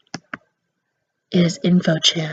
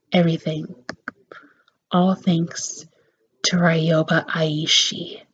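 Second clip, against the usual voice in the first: bitter, quiet villain; 5 dB quieter, slower than usual. Acted. Info-chan recounts father's ruin.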